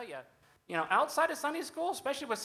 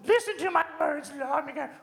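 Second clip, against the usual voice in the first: Jedi mind trick; 4 semitones higher, 4 dB louder than usual. Acted. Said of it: "use Jedi mind tricks on me".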